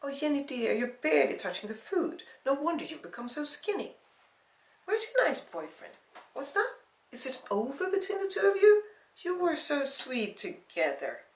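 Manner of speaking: high-pitched, prying family concern; fussing relative. Acted. Relative quizzing skinny Jenny about her boyfriend, fussing. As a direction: fuss over her in a high, lively voice.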